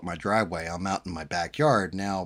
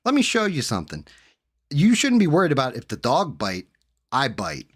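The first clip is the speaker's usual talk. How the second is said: higher, louder mocking menace; taunting threat; 5 semitones higher, 5 dB louder than usual. Threatening the guy during the beating, loud taunt. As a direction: taunt him before slapping again. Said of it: "I was like".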